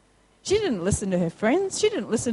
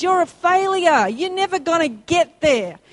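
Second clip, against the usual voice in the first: loud, higher taunting voice; voicing the taunts of hard times; screaming circumstances; 4 semitones higher, 4 dB louder than usual. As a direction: throw the doubts at them loudly. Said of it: "It screams".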